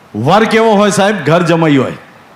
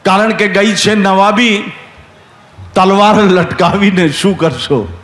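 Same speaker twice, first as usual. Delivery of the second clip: recited couplet; slower than usual. Acted.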